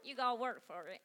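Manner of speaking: badly faked hillbilly twang; terrible hillbilly accent. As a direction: play it as a hammy hillbilly. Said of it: "That's a terrible hillbilly accent".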